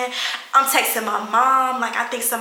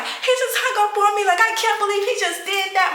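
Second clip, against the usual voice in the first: high-pitched wailing complaint; high, whiny mock distress; imitated upset; 11 semitones higher than usual. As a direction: mimic complaining tearfully to mom. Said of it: "I was so upset with my dad".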